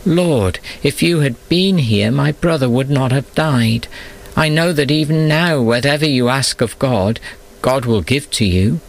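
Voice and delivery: high, pleading cry to Jesus. A narrator's reading. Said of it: "she cried".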